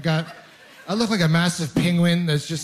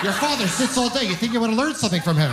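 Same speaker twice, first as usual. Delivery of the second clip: mother scolding; 5 semitones higher than usual. Retold or imitated. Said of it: "She's like".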